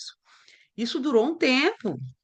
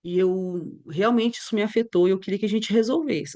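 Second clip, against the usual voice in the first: calm talk; 2 semitones lower than usual. Shown as a demonstration. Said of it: "Olha que diferença".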